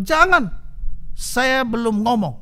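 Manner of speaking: high, urgent daughter's plea; daughter cutting in. Retold or imitated. Daughter to pastor, stopping him from leaving, high and urgent. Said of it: "anak perempuan bilang".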